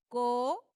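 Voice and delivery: "Co-o-pe-rar" in separate syllables, landing hard on RAR; stress on last syllable. Shown as a demonstration. Teacher showing where the stress falls, "Co-o-pe-rar" split with RAR stressed. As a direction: spell out "Co-o-pe-rar" by syllable, loud, final RAR stressed. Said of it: "recae en la última".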